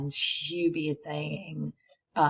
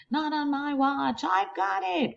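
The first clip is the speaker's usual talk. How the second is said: excited shout; 11 semitones higher than usual. Acted. Kids tackling in picture.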